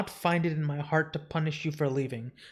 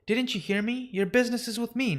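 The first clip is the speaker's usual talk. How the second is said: higher pitched and rushed, a touch sharp; indignant retort; 6 semitones higher, faster than usual. Acted. Unity snaps back at the Dream King, a touch indignant. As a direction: cut him off with mounting indignation.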